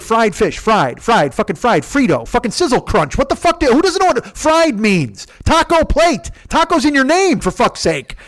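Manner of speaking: high, exasperated rant; hammed-up frustrated tirade; losing his mind. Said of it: "I wanted to lose my mind and say that shit".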